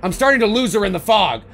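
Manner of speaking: lightly calling out to Lori; a mild mock yell from a distance. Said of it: "he yells out to Lori".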